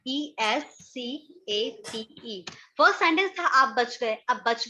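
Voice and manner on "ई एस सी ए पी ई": slow, letter by letter with gaps; measured dictation of single letters; spelling out. Shown as a demonstration. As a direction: spell it out slowly for a class. Spelling the word out for learners.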